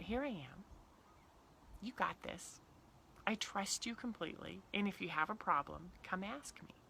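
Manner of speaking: put-on soft, quiet parent reassuring a child; calm reassurance. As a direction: settle your kid gently, softly. Parent calmly reassuring kid.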